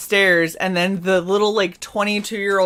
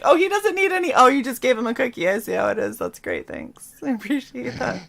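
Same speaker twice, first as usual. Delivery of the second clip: sarcastic mom; 3 semitones higher than usual. Retold or imitated. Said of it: "Mom will be like".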